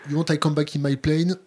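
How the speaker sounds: put-on English in a heavy French accent; mock a French statesman's accented English; Chirac. Host quoting a French president to the guest, in French-accented English. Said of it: "si t'avais dit Chirac".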